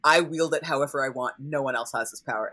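lightly imitating a possessive refusal; measured, emphatic mock-villain refusal; Lestat withholding. Acting out Lestat guarding his power, lightly haughty. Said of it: "shitty shit Lestat who's like".

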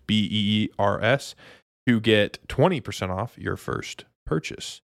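upbeat sponsor pitch; ad read. Acted. Host reading the sponsor ad to listeners, upbeat ad read. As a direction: sell it like a podcast ad.

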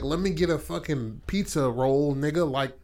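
demanding customer. Retold or imitated. Voices a customer calling out an order.

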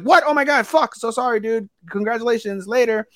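high-pitched imitation of stunned backpedalling; mock startled apology. Retelling beach guys learning she is married, high and mock-startled. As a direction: blurt it high, then excuse yourself.

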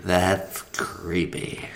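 slow, creepy voice. Pretend. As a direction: drag it out, creepy. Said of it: "in a creepier tone".

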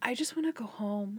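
a gloomy whisper, barely voiced; whispered mope. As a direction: whisper it like you've given up. Sad party guests answer.

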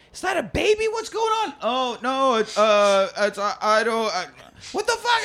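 very high panicked voice, far above her own; panicked wife. Retold or imitated. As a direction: squeak out the panic in a high falsetto. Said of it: "Melissa's like".

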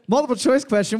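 quick, prim quiz-teacher delivery. Pretend. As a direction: read it like a fussy schoolteacher. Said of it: "You wanna hear him talk like a teacher?".

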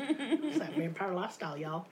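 laughing mockery. Shown as a demonstration. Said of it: "One more time".

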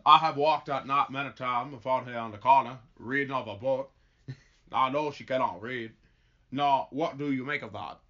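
put-on folksy, accidental Southern accent; Forrest Gump. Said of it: "I'm not trying to become Forrest Gump".

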